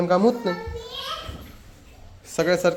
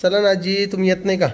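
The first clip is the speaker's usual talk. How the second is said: higher, louder call; 4 semitones higher, 5 dB louder than usual. Real, not acted. Woman calls loudly to grandma about the procession. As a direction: call grandma to come along.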